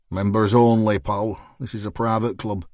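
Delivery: put-on Lancashire accent. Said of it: "spoke in a thick Lancashire accent".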